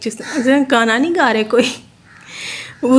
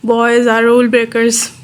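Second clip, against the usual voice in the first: slow emphatic summary; much slower than usual. Shown as a demonstration. Teacher sums up point.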